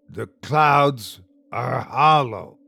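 "clouds are hollow" with every syllable separately stressed. A narrator reads a strange creature repeating its words to them: stressing every syllable. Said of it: "clearly stressing every syllable".

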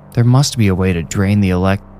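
plain reading voice

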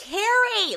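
mock very high, loud, shrieking distant call. Retelling how a neighbor calls out on the street: imitating someone screaming. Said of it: "like, screaming".

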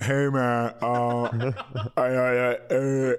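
put-on mumbling as with stuffed mouth. Retelling answering a cop with his mouth stuffed: imitating own mumbling with stuffed mouth. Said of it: "I can barely talk because it looks like I'm dipping".

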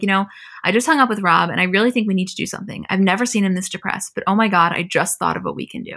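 ordinary talk

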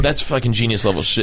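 ordinary talk

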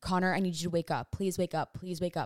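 mock scared, frightened pleading. Recounting texting someone from a hotel at night, acting out scared pleading. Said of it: "I'm so scared right now".

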